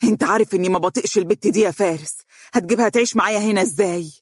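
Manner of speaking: quick, mildly heated mother; fast-paced motherly objection; agitated. Acted. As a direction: protest fast, worked up. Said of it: "قالت والدته بانفعال".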